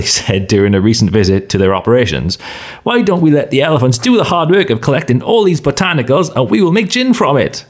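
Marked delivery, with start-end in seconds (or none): 2.8-7.6 higher, lightly voiced wife with a bright idea; a hint of an eager wife pitching a plan; reading out the wife's idea, lightly voiced higher; wife's suggestion. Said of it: "he recalled his wife suggesting".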